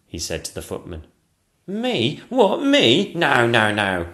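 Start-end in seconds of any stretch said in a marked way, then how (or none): 1.7-4.1 high disbelief falling into protest; a servant crying out in refusal; dismayed cry. Acted. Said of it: "cried the footman".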